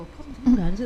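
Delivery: mild retold surprise; shocked question. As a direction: ask it like you can't believe it. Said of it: "kagetnya seperti itu".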